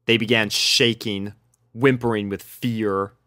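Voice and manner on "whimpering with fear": ordinary delivery, nothing marked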